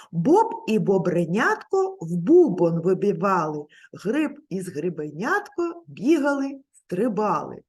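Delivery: put-on tongue twister recited for children to copy; teacher shows little pupils the tongue twister, said crisply; tongue twister demo. Shown as a demonstration. Скоромовка, чітко і виразно. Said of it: "Слухайте уважно".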